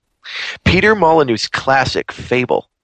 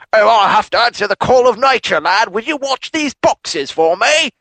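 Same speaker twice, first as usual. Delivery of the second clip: put-on old villager; 8 semitones higher than usual. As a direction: play a doddery country old man asking a favour. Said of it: "he's like".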